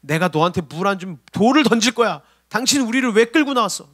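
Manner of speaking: imitated petulant complaint; mock whining. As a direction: grumble like the Israelites at Moses, rising in pitch. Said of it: "이스라엘 백성의 칭얼거림을 받아주고 있던".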